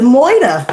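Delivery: Moida said with no R, like moy-duh; odd Murder pronunciation. Real, not acted. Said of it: "I said that word a little weird".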